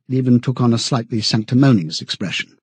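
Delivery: ordinary delivery, nothing marked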